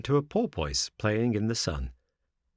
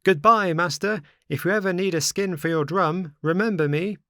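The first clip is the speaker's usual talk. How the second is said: loud, high teasing call across the water; 8 semitones higher, 4 dB louder than usual. Acted. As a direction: shout a cheeky goodbye from far off. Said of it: "he cried out, laughing".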